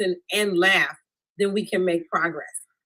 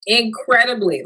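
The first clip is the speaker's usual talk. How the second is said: emphatic; 6 dB louder than usual. Real, not acted. Emphatic answer.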